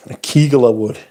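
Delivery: Akigilla with stress on the KI and a short ending; Mickers' pronunciation. Retold or imitated. Remembering how a departed Mickers called it, Akigilla in Mickers' pronunciation. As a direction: lean on the KI in Akigilla. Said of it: "as, uh, my Mickers would have called it".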